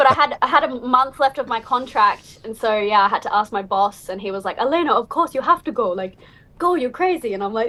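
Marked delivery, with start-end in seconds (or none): 4.6-7.3 clumsy, terrible fake Swedish accent. Retelling the boss's reply when asked for time off, in a terrible swedish accent. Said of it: "That was a terrible Swedish accent".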